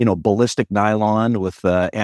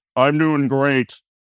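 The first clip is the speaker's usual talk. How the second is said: on-air radio announcer voice, pitched up; 5 semitones higher than usual. Retelling a hallway greeting from a colleague: imitating his radio voice. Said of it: "he's got the distinct real voice and radio voice".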